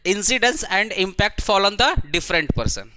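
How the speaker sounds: very slow, word by word, for notes; slow dictation. Shown as a demonstration. Teacher dictating the rule to students, very slow. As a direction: spell out the definition slowly so students write it. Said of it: "हम थोड़ा slow ही बोल रहे हैं".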